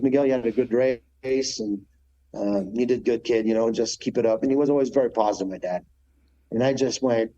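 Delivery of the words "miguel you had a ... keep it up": a hint of a calm father patting him on the back; consoling dad. Dad consoles son after race.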